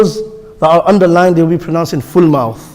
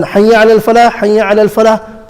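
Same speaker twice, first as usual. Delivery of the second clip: both Hayya ala al falah calls joined, pitched up; two together; 4 semitones higher than usual. Shown as a demonstration. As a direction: link falah straight into the next Hayya. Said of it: "pray them together".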